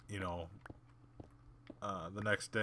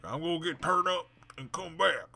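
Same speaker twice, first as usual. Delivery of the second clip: a higher, louder mock of the girl bragging; mock party girl; 8 semitones higher, 7 dB louder than usual. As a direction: ham up a girl promising to party and return. Imitating drunk girl's boast.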